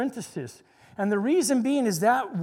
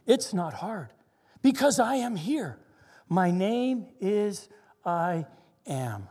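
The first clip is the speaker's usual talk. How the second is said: poetry reading voice. Shown as a demonstration. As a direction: read the poem gently and reverently. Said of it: "I'll get my poetry reading voice on here".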